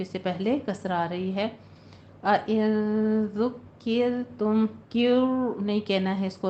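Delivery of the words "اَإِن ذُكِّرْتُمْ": ذُكِّرْتُمْ with a light, thin ra. Shown as a demonstration. Teacher shows ذُكِّرْتُمْ with a thin ra for students. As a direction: keep the ra in ذُكِّرْتُمْ thin, not heavy. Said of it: "را کو پر نہیں پڑھنا".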